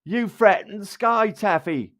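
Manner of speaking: high, slow mock Irish voice; attempted Irish accent. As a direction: put on a shaky attempt at Irish. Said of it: "What's my Irish accent?".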